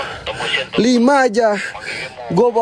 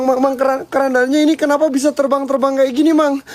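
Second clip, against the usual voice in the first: panic; 5 semitones higher than usual. Real, not acted. Panicking as the coffin flies.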